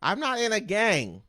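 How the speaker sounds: high, loud indignant denial; indignant protest. Real, not acted. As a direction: protest it loudly. Denies face tat, indignant.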